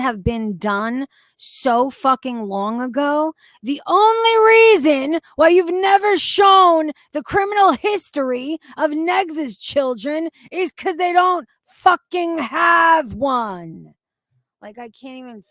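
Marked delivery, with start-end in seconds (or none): 3.6-13.9 loud, furious rant; rising anger shouted at a rival; angry shouting. Real, not acted. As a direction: yell it out in outrage. Angry rant at other creator.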